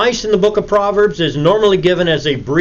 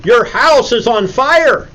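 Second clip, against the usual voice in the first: high, slow, urgent warning, only half shouted; acted cry of alarm, drawn out; mock scream; 6 semitones higher, 3 dB louder, slower than usual. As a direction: call out an alarm without fully screaming. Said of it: "And you scream at him".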